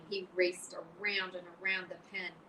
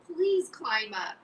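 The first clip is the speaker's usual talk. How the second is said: higher, louder desperate plea; 6 semitones higher, 6 dB louder than usual. Acted. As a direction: Wilbur begs in desperation. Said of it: "said Wilbur in desperation".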